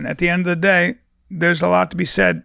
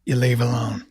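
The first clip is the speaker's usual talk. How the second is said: mock sage whisper; 4 semitones lower than usual. Mock guru advice, whispered.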